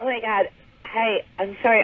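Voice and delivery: nervous, jittery voice. Calling in live on the air, greeting the hosts: nervous. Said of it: "I'm a little bit nervous right now".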